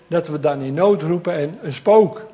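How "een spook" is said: mock frightened cry. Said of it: "En ze schreeuwden van angst".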